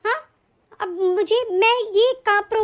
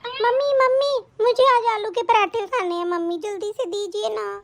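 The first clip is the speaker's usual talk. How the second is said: put-on little girl voice; 2 semitones higher than usual. Child asks for parathas.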